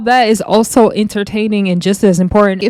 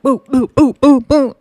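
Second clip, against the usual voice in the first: rhythmic mock stomping noises, rising in pitch; cartoonish marching-band thumps; imitated kicking sounds; 5 semitones higher than usual. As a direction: boop out each kick like a drumbeat. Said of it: "doing the marching band".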